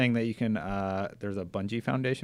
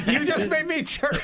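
high, laughing through the words; giggling, voice up high; 14 semitones higher, 3 dB louder than usual. Real, not acted. Laughing after chirp bit.

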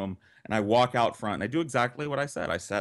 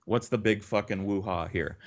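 somber taunt; 3 semitones lower than usual. Retold or imitated. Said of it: "very somberly".

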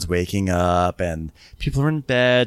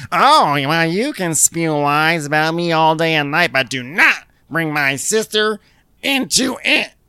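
angry ranting; 6 semitones higher, 3 dB louder than usual. Retold or imitated. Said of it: "storming through and she goes".

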